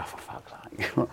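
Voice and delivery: slow whispered swear under the breath; a slow, stunned whispered curse at bad news; hushed curse. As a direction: breathe it out slowly, barely voiced. Hearing bad news from the doctor.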